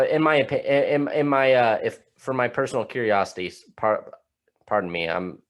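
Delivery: stumbling over the words; tripping over his words, restarting; stuttering. Real, not acted. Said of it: "ugh, I'm stuttering".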